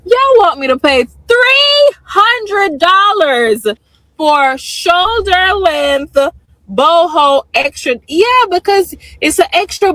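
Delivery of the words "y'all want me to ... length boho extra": slow, drawn-out outraged yell; retelling her outraged reply to the braider; incredulous shout. Retold or imitated. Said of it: "I said".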